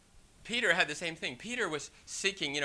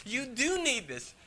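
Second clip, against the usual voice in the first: God's firm answer; 3 semitones higher, 4 dB quieter than usual. Pretend. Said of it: "And God's saying".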